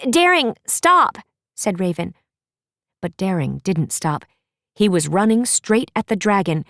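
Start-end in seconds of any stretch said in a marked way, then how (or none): 0.1-1.2 calling out. Acted. Raven calls after the charging prince.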